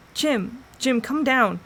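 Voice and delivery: calling up to a friend in a tree, loud and high. A narrator's reading. Will calls up to Jim in the tree, loud and urgent. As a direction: shout his name upward.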